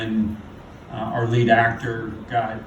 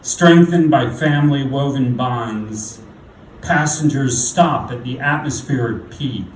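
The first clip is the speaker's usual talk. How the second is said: poem recitation; 3 dB louder than usual. Acted. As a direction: recite it deliberately, leaning into key words, falling at line ends. Recites own poem on stage.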